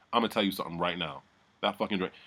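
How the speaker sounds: soft, quick retold warning; dead-serious imitation. Deborah telling Lowton about the drink, imitated dead-serious warning. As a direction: imitate a quiet, in-your-face warning. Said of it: "She got so real".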